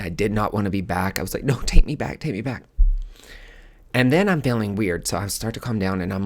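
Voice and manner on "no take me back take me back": sobbing plea. Retold or imitated. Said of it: "I was crying, I was sobbing".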